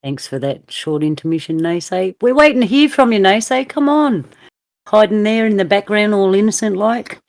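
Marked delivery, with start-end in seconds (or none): 2.2-7.2 higher-pitched, playful call to join in; teasing coaxing. Real, not acted. Host calling on a silent guest to speak, teasing. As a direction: coax them out, pitched up and louder.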